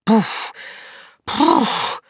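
forceful puffing breaths; menacing puffs. Acted. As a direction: puff out hard from the effort. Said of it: "эдакое грозное".

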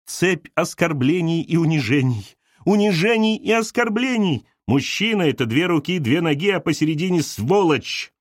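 the little woman delivering a maxim; pronouncing. Acted. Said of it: "изрекла маленькая женщина". (мать изрекает, веско)

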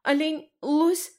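high, eager guesses; listing hopefully. A narrator's reading. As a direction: guess aloud, hoping for an animal. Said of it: "перечисляла с надеждой".

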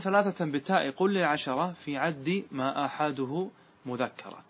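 slow, measured chant of the verse line; verse recitation. Shown as a demonstration. Teacher chanting the grammar verse to his class, slow and measured. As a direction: intone the verse slowly for students.

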